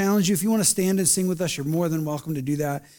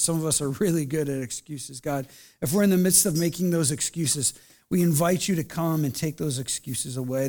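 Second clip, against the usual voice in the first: pastoral prayer; 2 semitones lower than usual. Acted. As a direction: pray over the congregation gently. Leads closing prayer.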